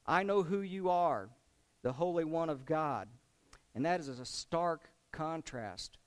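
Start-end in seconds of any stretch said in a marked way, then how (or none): 0.1-3.1 raised, louder retold demon's cry; voiced scorn. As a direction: call it out as a mildly scornful quote. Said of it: "they voiced their scorn at him".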